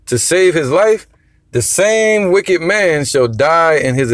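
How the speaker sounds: slow, weighty reading of verse; slow scripture reading. Acted. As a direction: lean on each word of the verse. Reads scripture, slowing down.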